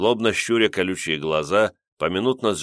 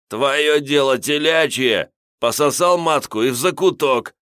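hoarse gurgling voice; 7 semitones higher, 5 dB louder than usual. A narrator's reading. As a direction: croak it out after choking. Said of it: "хриплым булькающим голосом сказал".

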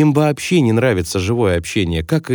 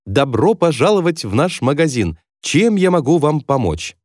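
lightly voiced extroverted salesman, a little higher; energetic greeting; 5 semitones higher than usual. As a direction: greet the customer with a touch of bubbly energy. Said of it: "громко говорит". (слегка изображая бойкого продавца-экстраверта)

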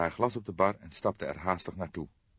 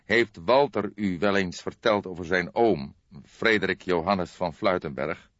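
urgent; 7 dB louder than usual. Acted. Cook presses urgently.

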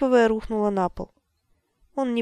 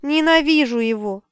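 tearful hatred; 4 semitones higher, 5 dB louder than usual. A narrator's reading. Sobbing in hatred.

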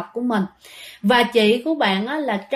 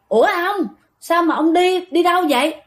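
higher, puzzled call to husband; retold wife's startled question; 6 semitones higher, 4 dB louder than usual. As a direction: ask in baffled surprise, pitched up. Mother startled, questions the father.

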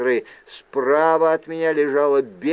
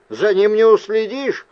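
loud, higher-pitched objection; insistent demand; 6 semitones higher, 5 dB louder than usual. A narrator's reading. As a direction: protest loudly and insistently. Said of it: "потребовал я". (громко и требовательно)

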